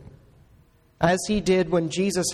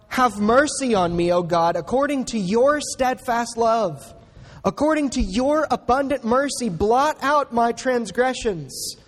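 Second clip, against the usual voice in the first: mildly raised, pleading recitation of a prayer; crying out in prayer; 3 semitones higher than usual. Retold or imitated. Preacher voicing David's plea to God for mercy, crying out mildly. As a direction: cry out to God, with restraint. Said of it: "You need to cry out".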